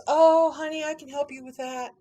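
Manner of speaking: imitated thick Southern Utah accent, lifted pitch; folksy Southern Utah accent, imitated. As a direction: play a helpful lady with a Southern Utah accent. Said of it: "got this thick Southern Utah accent".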